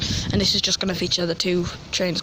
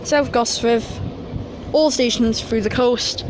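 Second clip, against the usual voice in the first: announcer voice. Retold or imitated. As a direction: read out the stops like a station announcer. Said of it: "That's just a quick way of saying it".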